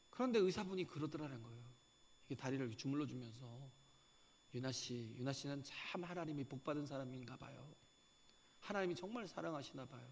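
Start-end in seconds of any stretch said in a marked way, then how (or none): 4.5-10.1 gentle doctor. Retold or imitated. Doctor gently consoling patient.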